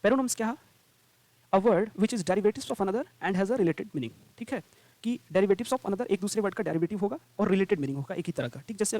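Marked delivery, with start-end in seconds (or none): 1.5-4.1 a definition read word by word, very slowly; slow dictation. Shown as a demonstration. Teacher dictating the homophone definition, very slowly. 5.3-6.0 key phrase drawn out slowly; slow repeat. Shown as a demonstration. Teacher slowly repeating the key words of a definition.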